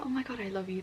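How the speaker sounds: soft, breathy whisper of thanks; touched whisper. Real, not acted. Thanking the viewer who sent books, touched whisper. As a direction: whisper it, overwhelmed.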